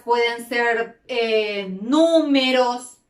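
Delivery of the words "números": números slowly, NÚ held long; slow números, weight on NÚ; stress on antepenultimate syllable. Shown as a demonstration. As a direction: stretch the first syllable of números. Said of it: "tónica en la antepenúltima sílaba".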